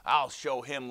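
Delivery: mild show of defiance; understated resentful vow; muttered angrily. Acted. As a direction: grumble it with a touch of anger. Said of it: "Liang muttered angrily".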